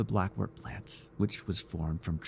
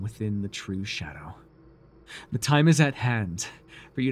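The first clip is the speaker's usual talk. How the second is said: ritual incantation. Acted. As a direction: intone it like a rite, swelling as it goes. Reciting the incantation.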